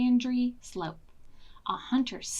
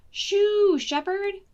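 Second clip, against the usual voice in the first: sheep shooing; 10 semitones higher, 6 dB louder, much slower than usual. Acted.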